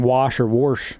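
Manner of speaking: "wash" said plain, then "wash" with an r, like "worsh"; regional variants. Shown as a demonstration. Friend comparing dialects, two pronunciations of wash. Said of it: "just like saying".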